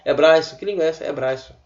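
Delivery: hebraico said ebraisso, C as S. Shown as a demonstration. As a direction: joke reading hebraico with S. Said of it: "O C de hebraico transformado, transformado em S".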